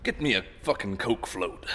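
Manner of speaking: brash American order, lightly done; a casual American voice demanding a drink; American accent. Pretend. Bassist taking his turn at an American accent. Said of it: "your turn".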